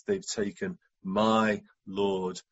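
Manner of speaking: slow, low, understated sorrow; deeply felt pain. Acted. Mary grieving for Jesus, deeply felt. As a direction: weigh each word slowly with quiet devotion. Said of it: "You can hear the depth of the relationship".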